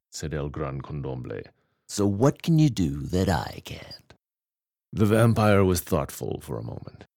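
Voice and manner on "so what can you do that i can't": breathy whispered taunt. Acted. Cat whispers a bored challenge to the vampire.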